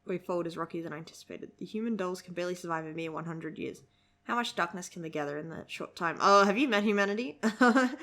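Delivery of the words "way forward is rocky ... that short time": low, soft read of character lines; manga dialogue reading. Acted. Reader voicing grim manga lines for viewers, understated reading.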